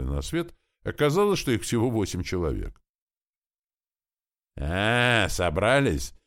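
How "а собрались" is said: louder, higher taunting yell, slowing at the end; loud pleased menacing shout; gleeful shout. A narrator's reading. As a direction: relish the threat, bully shouting at students. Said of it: "довольно закричал крупный рослый парень".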